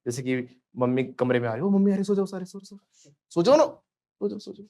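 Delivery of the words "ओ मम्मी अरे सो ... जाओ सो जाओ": put-on higher-pitched child's urgent warning, part hushed; mock panic. Kids warning each other that mummy is coming, urgent and hushed. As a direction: act a kid hurrying the others into bed. Acts children hurrying to fake sleep.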